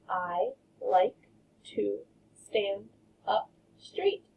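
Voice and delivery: slow, words spaced apart. Shown as a demonstration. Teacher spacing words for counting, slow. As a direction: count each word out slowly. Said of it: "count how many words".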